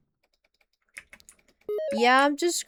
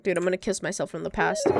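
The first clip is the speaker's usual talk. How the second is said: emotional, near tears; 7 semitones lower, faster than usual. Real, not acted. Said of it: "I'm gonna cry".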